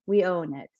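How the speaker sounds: quiet, settled repeat of own it. Shown as a demonstration. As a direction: let it land softly.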